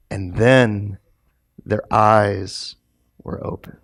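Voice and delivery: hushed reveal. Real, not acted. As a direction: drop low and fade into a whisper. Dramatic climax.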